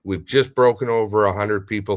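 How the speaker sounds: ordinary talk, nothing marked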